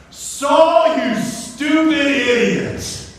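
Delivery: high, loud, exasperated scolding; mock angry shout. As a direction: holler the insult, drawing it out. Samuel imagined berating Saul on rising.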